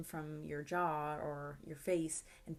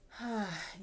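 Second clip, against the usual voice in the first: demo sigh. Shown as a demonstration. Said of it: "You can let out some sound".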